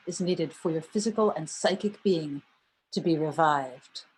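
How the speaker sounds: stately, unhurried recitation; quotation reading. Retold or imitated. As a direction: read the quotation out deliberately, with pauses. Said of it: "I have the quotation here".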